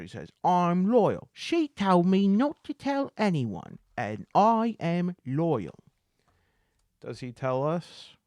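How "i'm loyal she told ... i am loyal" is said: high, loud, staunch beggar voice; loyal beggar. Acted. Beggar refusing to betray the lady, loyal beggar. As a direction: declare it emphatically in a raised character voice. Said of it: "being moody and loyal".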